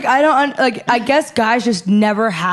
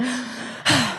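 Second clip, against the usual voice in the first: soft out-of-breath sigh; 8 dB quieter than usual. Retold or imitated. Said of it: "out of breath or something".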